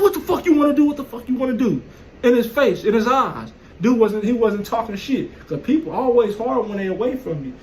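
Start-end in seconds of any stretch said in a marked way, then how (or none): 0.0-1.8 retold challenge. Up in the dude's face.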